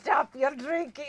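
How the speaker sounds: Arnold impression. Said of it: "It still sounds Irish".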